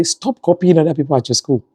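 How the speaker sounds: retold motherly telling-off, slowing at the end; correcting a child. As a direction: correct the child insistently, slowing on the last words. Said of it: "I'm trying to correct her".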